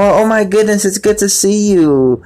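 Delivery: beam it out like a happy regular; cheerful peppy. Retold or imitated. Customer greeting a night-shift worker, high and peppy. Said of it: "just a more cheerful, more peppy attitude".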